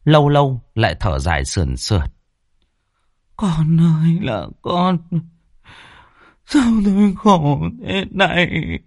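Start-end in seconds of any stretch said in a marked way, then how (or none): 3.4-8.8 high, slow keening lament with a sob; wailing grief. A narrator's reading. Grieving mother wails over her son's coffin, high and slow. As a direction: cry out to the dead son, drawn out.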